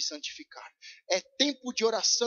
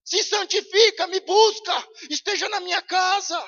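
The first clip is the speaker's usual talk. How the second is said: a hint of God pleading, slow on Filho amado; lightly voiced God; 8 semitones higher, 6 dB louder than usual. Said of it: "E ele está dizendo".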